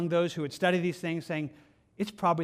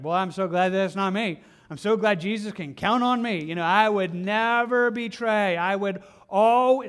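smug boast; 2 semitones higher, 6 dB louder than usual. Pretend. Mocking smug self-assurance.

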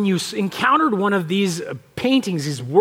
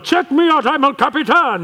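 strut like a bragging mountain; boastful rock; 6 semitones higher than usual. Retold or imitated. Imagined El Capitan boasting to visitors, hammed-up and high. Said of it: "El Capitan's there going".

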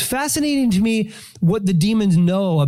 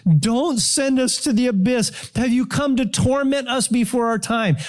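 higher, drawn-out mock plea; mildly dramatised plea, stretched out; begging; 5 semitones higher than usual. Demons plead with Jesus not to send them to the abyss, begging. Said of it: "it says they begged Jesus".

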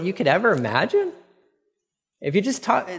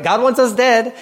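guilt-ridden complaint; 8 semitones higher, 6 dB louder than usual. Retold or imitated. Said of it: "this guilt conscious, this guilt complex".

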